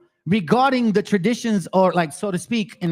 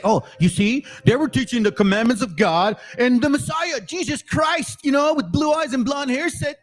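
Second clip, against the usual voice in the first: mock Christian believer; 6 semitones higher than usual. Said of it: "Christianity would say".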